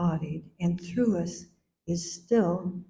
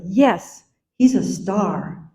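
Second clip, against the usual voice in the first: Yes louder, with he's landed firmly and slowly; emphatic; 6 dB louder, slower than usual. Retold or imitated. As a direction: say it with certainty, leaning on "hes". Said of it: "I then said emphatically".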